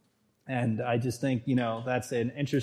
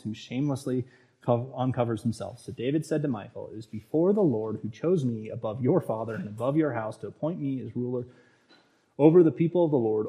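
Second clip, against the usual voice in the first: steady, even Bible reading voice; scripture reading. Acted. Preacher reading Second Samuel to his congregation, even scripture reading. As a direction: read the passage out evenly to the congregation.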